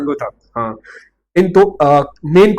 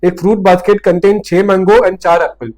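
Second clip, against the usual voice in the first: reads the question out slowly, word by word; slow, deliberate read of the question; slow careful reading; much slower than usual. Shown as a demonstration. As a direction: dictate it slowly to the class. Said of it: "एक बार वापस पढ़ा अच्छे से".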